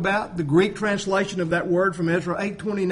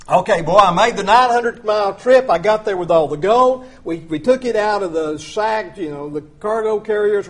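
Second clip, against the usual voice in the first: boastful Ezra; 5 dB louder than usual. Retold or imitated. Preacher voices Ezra after his trip.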